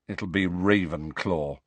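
low, slow and weighed down; a touch of gloom in a slowed line; heavy-hearted. Acted. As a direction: say it like the match no longer matters. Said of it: "said Harry heavily".

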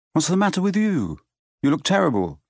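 put-on high, worried boy's question; startled concern; alarmed. A narrator's reading. Ron alarmed.

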